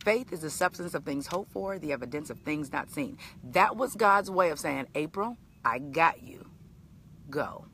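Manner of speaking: quiet, tender scripture read; hushed message from God; soft reverent reading. Real, not acted. Reading divine message softly.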